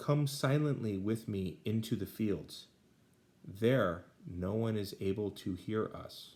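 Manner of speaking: ordinary talk, nothing marked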